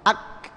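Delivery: "ak" cut off with the tongue pressed firmly; firm stopped K. Shown as a demonstration. Teacher showing where the k sticks first, firm stop. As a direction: hold the k of "ak" shut, no release. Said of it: "makhraj itu nempel dulu dengan kuat".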